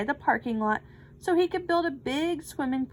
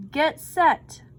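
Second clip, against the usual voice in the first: bellowing; 4 semitones higher, 6 dB louder than usual. A narrator's reading. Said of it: "bellowed the coach".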